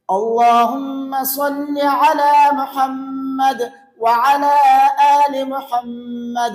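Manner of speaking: slow recitation with a pause after each phrase; pausing between phrases. Shown as a demonstration. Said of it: "یہ تو میں ٹھہر ٹھہر کر آپ کے سامنے پڑھ رہا ہوں".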